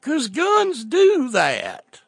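slow, high redneck drawl; drawn out, pitched high and dumb; Southern hick accent. Acted. Cletus excusing himself, in a slow hick drawl.

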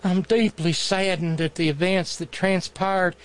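lightly put-on Southern accent reading a letter; understated mock Southern accent. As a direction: read the plea in a mild mock Southern accent. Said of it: "I know, wrong accent".

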